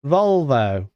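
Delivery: Volvo with an English "oh" ending. Shown as a demonstration. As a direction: say Volvo as a Brit would. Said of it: "the Volvo pronunciation".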